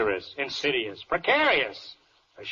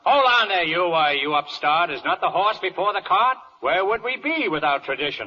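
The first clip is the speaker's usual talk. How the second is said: indignant judge. Acted. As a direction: scold the upstart lawyer. Judge rebuking defense.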